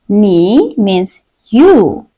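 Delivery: 你 means you, drawn out slowly; very slow, patient explanation; slow teacher explanation. Shown as a demonstration. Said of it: "it means".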